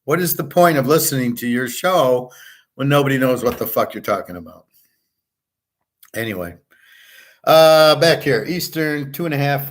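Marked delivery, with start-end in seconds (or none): 0.1-4.6 hammed-up disbelief, fast at the end; exasperated retort. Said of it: "And I go".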